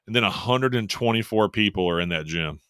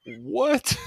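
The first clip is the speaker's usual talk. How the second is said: baffled what; 14 semitones higher than usual. Retold or imitated. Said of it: "And I'm just like".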